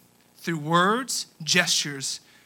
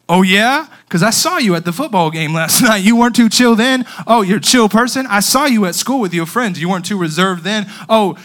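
louder, calling out their excuse; loud mock-accusing comeback; loud teasing retort; 7 dB louder than usual. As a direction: poke holes in it, loud and playful. Retort to the reserved person.

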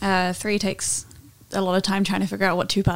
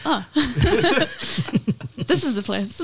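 slow giant voice; 5 semitones higher, much slower than usual. Acted. Player voices his Goliath arriving.

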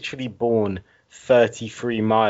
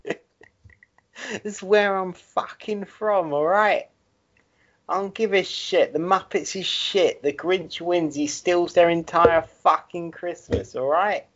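mock rant; 6 semitones higher than usual. Mock rant about Grinch.

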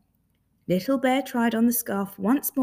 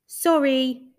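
loud, higher creature apology; apologetic creature; 5 semitones higher, 7 dB louder than usual. Acted. Creature pops back out, loud high apology. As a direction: call out sorry in creature voice.

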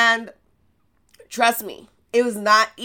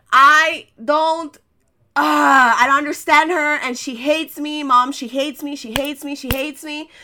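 higher, teary whine, "She hates me" on repeat; teen whining to mom about a strict teacher; 5 semitones higher than usual. Retold or imitated. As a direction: complain like a hurt teen near tears.

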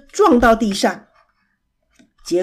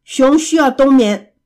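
angry; 3 semitones higher, 6 dB louder than usual. Acted. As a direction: snap at the noisy pair to stop singing. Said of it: "贝熊生气地坐起来". (生气地大声训斥)

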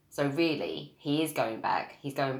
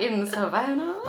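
mock southern accent; 6 semitones higher, 4 dB louder than usual. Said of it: "can be southern".

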